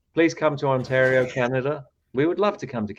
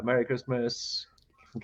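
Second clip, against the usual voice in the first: whispered; 6 dB quieter than usual. Real, not acted. Reading a message, whispered.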